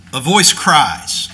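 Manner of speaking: slow, with a long pause after "A voice cries"; full stop after "A voice cries", slow and weighted. Shown as a demonstration. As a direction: let "A voice cries" land, then hold a long pause. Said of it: "the pause there is to reflect the punctuation".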